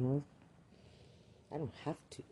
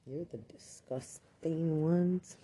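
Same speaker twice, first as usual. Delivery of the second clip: higher and slow, accusing; real accusing anger; 6 semitones higher, much slower than usual. Real, not acted. Speaker accusing officials, slow and higher. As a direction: drag it out with real contempt. Accusing during angry rant.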